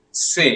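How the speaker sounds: "Se" with a soft S; French letter C as "Se"; soft S sound. Shown as a demonstration. Teacher names the French letter C, soft S sound. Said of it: "It has a soft S sound".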